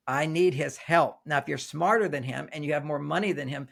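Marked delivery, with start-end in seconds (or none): 0.1-1.2 slow, sincere admission of need. Retold or imitated. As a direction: say it slowly, leaning on need. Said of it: "when she feels".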